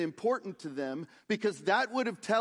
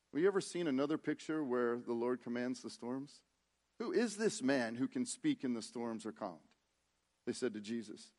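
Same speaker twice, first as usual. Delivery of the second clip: much softer, lower aside to the congregation; hushed aside; 6 semitones lower, 8 dB quieter than usual. Acted. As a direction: drop your voice low and soft. Quiet aside on Jesus calming storms.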